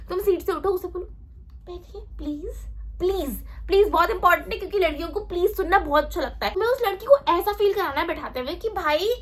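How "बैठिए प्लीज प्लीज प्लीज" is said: polite pleading. Acted. Boy offering his seat to a girl, polite pleading.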